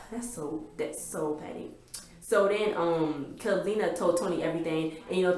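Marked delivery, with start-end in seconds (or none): 0.1-1.7 hushed disapproval. Real, not acted. Judging the show's drama.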